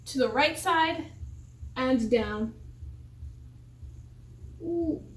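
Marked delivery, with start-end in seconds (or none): 4.6-5.0 sore muscles. Real, not acted. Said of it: "Oh, I'm so sore".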